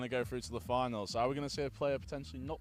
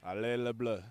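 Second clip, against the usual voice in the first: put-on French accent; 2 semitones lower than usual. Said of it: "Finest French accent".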